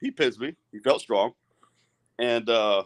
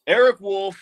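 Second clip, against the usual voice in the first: angry emphasis; 6 semitones higher, 6 dB louder than usual. Real, not acted. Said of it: "Here's where I get really pissed".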